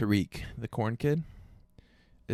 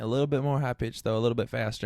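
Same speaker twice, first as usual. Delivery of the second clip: put-on country accent; 2 semitones lower than usual. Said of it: "it's kind of a country accent".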